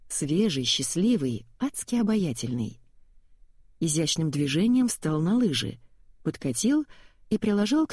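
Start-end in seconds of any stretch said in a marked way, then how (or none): none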